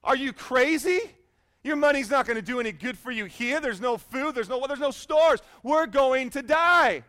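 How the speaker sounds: loud, high disbelief building to a shout; exasperated panic. Acted. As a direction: act a castaway losing it at his friend. Panicked castaway argues with calm friend.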